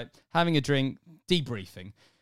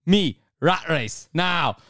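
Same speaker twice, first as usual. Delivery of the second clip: shouted challenge; 6 dB louder, much slower than usual. Retold or imitated. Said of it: "he goes".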